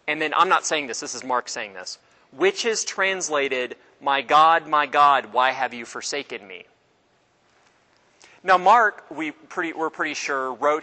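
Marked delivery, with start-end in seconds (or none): 4.0-6.6 loud cry. Retold or imitated. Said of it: "cried out in a loud voice".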